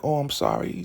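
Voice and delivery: high, small mock apology; meek apology. Acted apology to the ruler.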